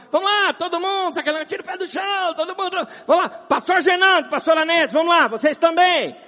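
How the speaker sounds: high, loud, pushy worship leader call; rally everyone like a hyped leader; mock song leader. Pastor mocking a dance leader calling everyone to dance, high and loud. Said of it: "O irmão cisma".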